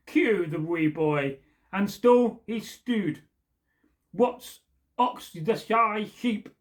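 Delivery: measured, slow ballad recitation; storyteller reading a folk poem aloud. A narrator's reading. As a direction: recite it like an old Scots ballad. Reads the old Scottish poem.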